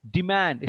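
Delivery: deMAND, second syllable weighted; stress on mand. Shown as a demonstration. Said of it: "stress is on man".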